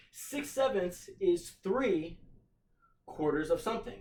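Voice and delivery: slow, weighty reading with "three" and "of" pressed; emphasized reading. Shown as a demonstration. Teacher rereads the key statement for students, slow and emphatic. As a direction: spell it out slowly, leaning on "of". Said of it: "emphasizing different words of the sentence".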